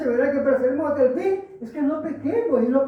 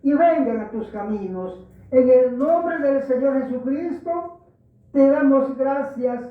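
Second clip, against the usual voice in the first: earnest pulpit prayer, steady and measured. Acted. Pastor praying aloud before preaching, earnest prayer voice. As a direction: pray it aloud for the whole congregation.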